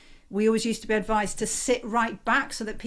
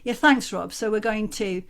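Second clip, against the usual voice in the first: lifted, louder, livelier greeting; brightened; 4 dB louder than usual. Shown as a demonstration. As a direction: brighten up as you come off mute. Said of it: "do you see the effect of... the brightening of the face".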